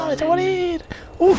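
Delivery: high, mock-villain taunt; hammed-up threat at the enemies. Gamer taunts enemy heroes, mock threat.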